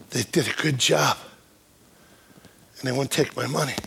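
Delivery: low, soft, slow mumbling to himself with long pauses; quiet baffled muttering. Retold or imitated. Man lying in bed at night, muttering low and soft. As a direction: mutter it half-asleep in bed, puzzled. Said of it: "and went like this".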